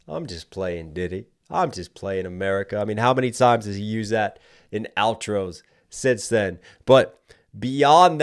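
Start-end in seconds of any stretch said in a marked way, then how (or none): 0.1-2.8 imitated outro line. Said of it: "And so begins the classic".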